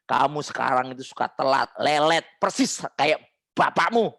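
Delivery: mock nagging mother, dragging out the jabs; hammed-up disapproving nag; wrong-way scolding. Shown as a demonstration. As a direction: demonstrate a bad telling-off, slowing on the insult. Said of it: "Seni menegur yang salah".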